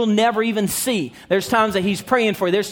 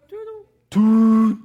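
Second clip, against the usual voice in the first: drawn-out toot; imitated toot; 5 dB louder, much slower than usual. Preacher plays with the storybook's toot, drawn-out imitation. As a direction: draw the toot out slowly like a whistle.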